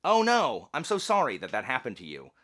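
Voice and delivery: mock concerned high voice; high sympathetic voice. Shown as a demonstration. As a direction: console them in a high voice. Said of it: "you see this voice?".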